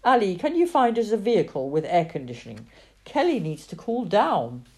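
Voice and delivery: loud, fast shout to the interpreter. Acted. Simon shouts to Ali for a cooled vehicle, fast shout. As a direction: shout the urgent request across. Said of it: "Simon shouted to the interpreter".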